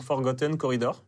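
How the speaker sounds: English name in a French accent. Real, not acted. Hacker naming the copied badge, French-accented English. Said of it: "On adore ton accent anglais".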